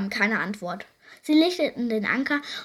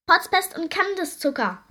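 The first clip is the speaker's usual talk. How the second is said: loud, higher cry of protest; shouting pirates; 6 semitones higher, 5 dB louder than usual. A narrator's reading. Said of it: "schrien die Piraten". (empört geschrien)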